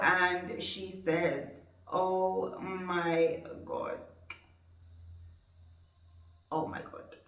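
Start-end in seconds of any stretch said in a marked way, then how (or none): 1.9-7.2 shocked. Retold or imitated. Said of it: "she's surprised".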